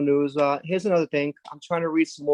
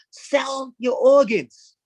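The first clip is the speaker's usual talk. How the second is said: slow pitch; 8 semitones higher, much slower than usual. Acted. Deadpan sales pitch.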